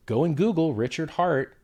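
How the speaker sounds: slow heated command to go Google his name; insistent. Real, not acted. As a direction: spell it out for someone you think is stupid. Angry guest insisting on proof.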